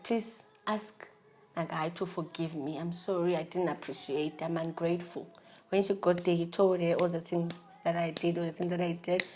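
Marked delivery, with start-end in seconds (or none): 0.0-5.3 low, soft retold apology; subdued begging. Girlfriend asking her sister to win forgiveness, meekly. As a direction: plead meekly, voice dropped down. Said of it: "I asked for forgiveness. I begged".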